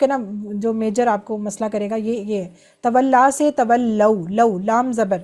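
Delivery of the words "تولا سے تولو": "تولا سے تولو" slowly, "لو" said "لَو" with zabar; slow clear drill. Shown as a demonstration. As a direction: spell out "تولو" with the zabar sound. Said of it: "یہ بس آپ نے دھیان رکھنا ہے". ("تولو" آہستہ، زبر کے ساتھ "لَو")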